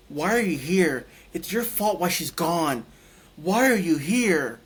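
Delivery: retold accusation, rising in force; upset, crying cop. Crying cop blames the patient for her being gone, mildly acted accusation. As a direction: imitate an upset cop demanding an answer, no sobs. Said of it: "This cop comes in in front of me crying".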